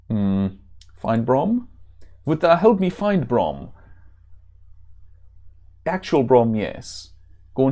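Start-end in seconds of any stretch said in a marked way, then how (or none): 2.3-3.7 put-on German accent, higher pitch; hammed-up German accent. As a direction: plead as a German-accented warrior. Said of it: "that accent that I used".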